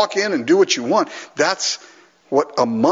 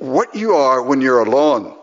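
imitated Scottish accent; Alistair; 3 dB louder than usual. Quoting a colleague's line to the crowd, Scottish accent. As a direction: deliver it like a Scottish preacher. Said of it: "But he said".

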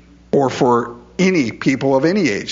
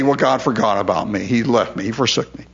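mock self-pity; 2 semitones lower than usual. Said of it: "I can just say".

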